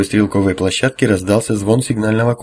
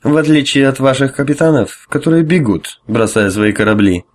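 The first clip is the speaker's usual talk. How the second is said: louder, mocking drunk jab; sneering; 4 semitones higher, 4 dB louder than usual. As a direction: spit the accusation with contempt. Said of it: "ухмылка переросла в гримасу".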